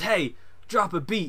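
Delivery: loud, high-pitched shouting.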